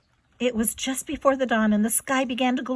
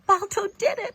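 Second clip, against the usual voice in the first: 1 joyful thought; 9 semitones higher than usual. A narrator's reading. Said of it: "thought Gunnar".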